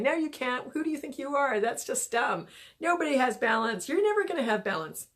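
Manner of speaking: a hint of a heckling gremlin; mock screaming gremlin. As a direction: nag like an inner critic without really screaming. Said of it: "start screaming in your go-, ear".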